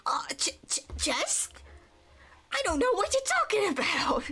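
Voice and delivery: stammer, then blurt the denial; nervous denial. Acted. Character cornered about the chest, stammering panicky denial. Character playing innocent under threat.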